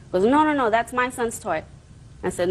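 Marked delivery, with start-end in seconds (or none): 0.2-1.6 higher-pitched mock objection; imitated protest. Woman quoting her ex to the judge, mock protesting. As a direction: re-enact someone insistently contesting ownership. Acts out father's side of quarrel.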